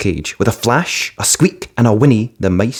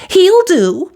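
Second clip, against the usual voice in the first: very high, loud pleased fairy; fiery fairy; 5 dB louder than usual. A narrator's reading. Fiery fairy choosing the dog Buttons, decisive. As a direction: snap it out decisively. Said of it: "said the fiery fairy".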